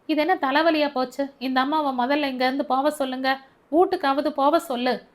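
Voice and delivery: a hint of an annoyed boss yelling; shouting in irritation. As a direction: bark at them to get her out. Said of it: "சொல்லி கத்தினான்".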